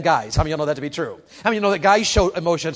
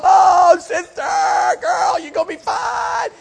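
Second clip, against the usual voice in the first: much higher, loud mock girlfriend comfort; 13 semitones higher, 6 dB louder, slower than usual. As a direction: play the girls consoling a crying friend. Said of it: "you know, girl".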